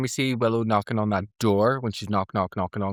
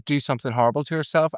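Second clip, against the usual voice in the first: put-on Northern Irish accent; faster than usual. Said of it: "sounded so Northern Irish".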